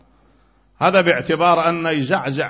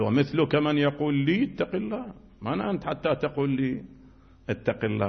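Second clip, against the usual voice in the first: softer, scoffing reply from a proud ruler; Hisham's scornful retort; 6 dB quieter than usual. Retold or imitated. Hisham mocks Zaid's warning in a soft, scornful tone. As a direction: sneer it back, quietly dismissive. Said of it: "قال".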